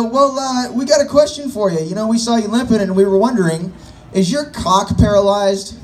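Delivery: a hint of nosy girls prying; curious girls. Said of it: "And they go".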